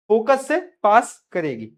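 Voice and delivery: फोकस से पास करेगी drawn out slowly; slow emphasis. Shown as a demonstration. Teacher drilling फोकस से पास करेगी into students, slowly. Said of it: "teacher repeats key phrase".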